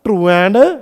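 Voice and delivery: very slow, each word spaced out for notes; slow dictation. Shown as a demonstration. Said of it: "आज की class में ये word बड़ा ज़रूरी है". (बहुत धीरे, लिखवाते हुए)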